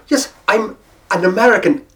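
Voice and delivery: Irish-tinged attempt at American accent; not yet properly American accent. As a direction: start out in brogue, aiming for American. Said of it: "had to concentrate to get that good American accent back".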